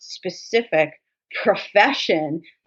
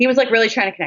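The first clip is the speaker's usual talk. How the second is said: plain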